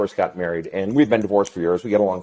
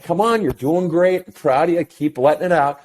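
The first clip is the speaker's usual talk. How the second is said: encouraging father; 5 semitones higher than usual. Retold or imitated. Father cheering on crying son.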